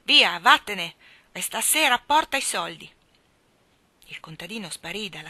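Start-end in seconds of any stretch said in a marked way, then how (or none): 0.0-2.9 much louder order to get out; furious shout. A narrator's reading. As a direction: drive him off with a yell. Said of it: "urlò Laga". (grido furioso)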